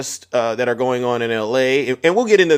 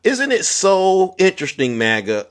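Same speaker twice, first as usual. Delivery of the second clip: mock sarcastic; 2 semitones higher, slower than usual. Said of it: "And I said".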